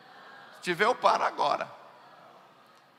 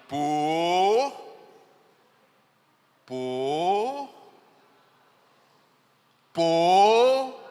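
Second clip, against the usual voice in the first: prompting mother; 5 dB louder, much slower than usual. Retold or imitated. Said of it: "Aí a mãe".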